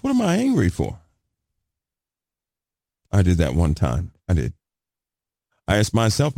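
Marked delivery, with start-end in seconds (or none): 0.0-1.0 questioning self. Retold or imitated. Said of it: "you'll say to yourself".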